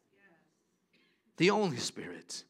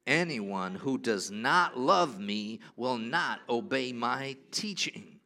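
slow recitation together; 6 semitones lower, slower than usual. Shown as a demonstration. Pastor leading the congregation in reading the verse aloud, slow and unison. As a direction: read slowly, word by word, with the room. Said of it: "Could we say it together?".

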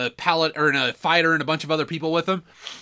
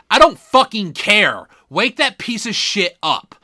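louder barked order; mock demand; 3 semitones higher, 5 dB louder than usual. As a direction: snap it like an impatient boss. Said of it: "It's like".

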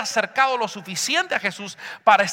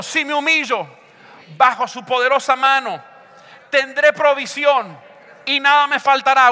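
raised, forceful phrases with pauses for repeating; strong declaring voice; 3 semitones higher, 5 dB louder than usual. Shown as a demonstration. Preacher has congregation declare provision, strong raised voice. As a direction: proclaim it boldly, building in volume. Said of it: "Di con voz fuerte".

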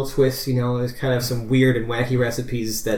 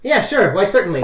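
1920s New Yorker; 8 semitones higher, 5 dB louder than usual. Acted. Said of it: "nineteen twenties New Yorker accents for everybody".

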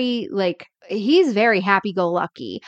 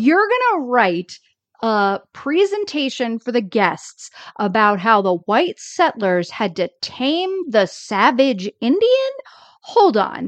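imitated incredulous challenge; calling him out. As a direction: question him in mock disbelief. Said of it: "Danny's calling him out on it".

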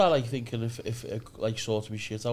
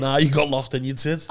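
mocking message; 3 semitones lower, 5 dB louder than usual. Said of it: "message them, saying".

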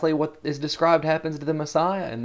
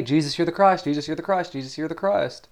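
rote repetition; 5 semitones higher than usual. Shown as a demonstration. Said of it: "we can say".

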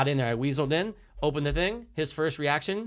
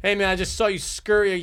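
calling out; 4 semitones higher, 3 dB louder than usual. Retold or imitated. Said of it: "and I'm going".

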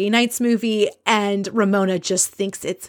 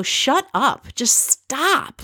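higher, fed-up "shut up"; exasperated mock retort; 6 semitones higher, much slower than usual. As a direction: snap at an attention hog. What she'd like to say.

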